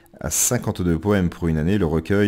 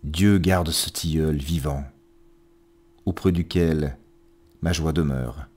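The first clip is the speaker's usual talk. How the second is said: measured verse reading with pauses between lines; poetry recitation. Acted. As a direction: recite each line deliberately, letting endings fall away. Reads poems aloud on programme.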